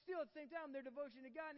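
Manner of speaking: fervent sermon build; passionate preaching. Real, not acted. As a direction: preach it out with fire. Preaching at full force.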